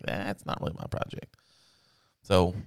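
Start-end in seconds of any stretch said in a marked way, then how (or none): 0.0-1.4 unvoiced under-the-breath grumble; muttered aside. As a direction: say it to yourself so dad can't hear. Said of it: "And I'm like".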